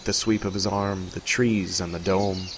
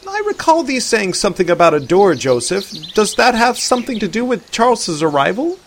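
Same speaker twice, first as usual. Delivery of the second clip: slightly higher, louder Arthur voice; a hint of a curious old-fashioned man; lightly voiced Arthur; 12 semitones higher, 7 dB louder than usual. A narrator's reading. Arthur questioning Joseph.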